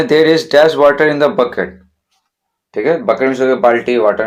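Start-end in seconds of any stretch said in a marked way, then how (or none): 0.0-1.7 very slow, word by word, saying "dash" for the gap; slow dictation read. Shown as a demonstration. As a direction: read the sentence slowly for the students to follow. Teacher reads exercise sentence.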